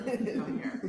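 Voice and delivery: pet-talk come here; high coaxing call. Real, not acted. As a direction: call the piglet over sweetly. Calling to the pig.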